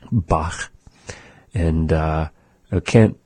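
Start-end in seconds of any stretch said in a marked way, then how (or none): 0.1-0.7 "Bach" ending in a back-of-mouth rasp; raspy final CH. Shown as a demonstration. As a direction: scrape the end of "Bach". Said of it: "the way that they say it".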